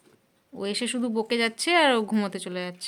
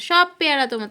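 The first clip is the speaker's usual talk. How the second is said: louder, insistent offer to the pet; firmer, louder coax to a pet; 4 dB louder than usual. Real, not acted. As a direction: push the offer out more firmly. Coaxing pet to eat guava.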